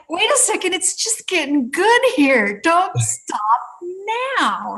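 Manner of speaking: high-pitched, animated mock plea; eager urging. Practitioner urging impatient client to stay, eager plea. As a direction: re-enact urging someone not to quit.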